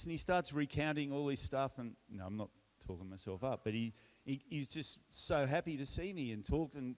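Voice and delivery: ordinary talk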